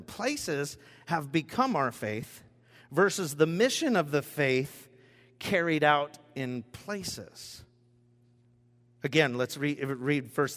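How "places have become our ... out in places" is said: a second slow, stressed reading; slow reread. Shown as a demonstration. Preacher rereading the key line, slow and stressed. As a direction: lean on "mission" the second time. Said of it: "I'll read that one more time".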